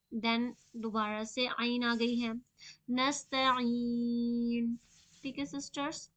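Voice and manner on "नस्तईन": नस्तईन very slow with a distinct स and ऐन; clear seen. Shown as a demonstration. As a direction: sound out every letter of नस्तईन. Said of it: "सीन की आवाज़ को वाज़ेह करनी है".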